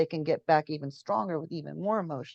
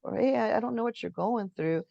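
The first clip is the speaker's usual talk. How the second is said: gentle apology; 3 semitones higher than usual. Retold or imitated. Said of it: "an opposite feeling like that".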